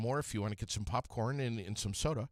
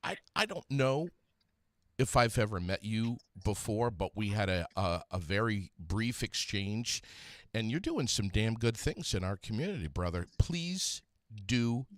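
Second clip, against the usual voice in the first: louder, eager praise for a guest; enthusiastic praise; 5 dB louder than usual. Real, not acted. Host praising caller's community work, loud and eager. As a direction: talk him up with real energy.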